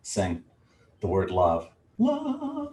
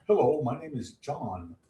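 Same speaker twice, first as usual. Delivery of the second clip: higher, put-on hello in his stead; a playful higher-pitched stand-in voice; John Holland impression; 5 semitones higher, 4 dB quieter than usual. Card reader introducing the deck's author, in a put-on voice. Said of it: "I talk like that on his behalf".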